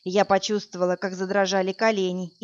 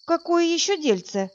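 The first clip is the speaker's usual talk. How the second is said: tense; 8 semitones higher than usual. A narrator's reading. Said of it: "напряглась я".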